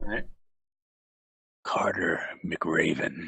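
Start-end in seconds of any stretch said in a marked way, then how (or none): 1.6-3.3 very low half-whisper, breathed out. Asking the others where a name lands on the globe, half-whispering a name. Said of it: "I'm going to whisper a name to you".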